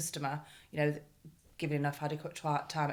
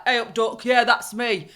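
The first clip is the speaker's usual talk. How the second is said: cheery local owner; 4 semitones higher, 10 dB louder than usual. Retold or imitated. Voicing the brash independent owner.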